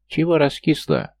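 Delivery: high, thin squeak of a gnome; squeaky little voice. A narrator's reading. Gnome teasing the moping heroine, squeaky high voice. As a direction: pipe it up like a tiny gnome. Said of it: "пропищал рядом тоненький голосок".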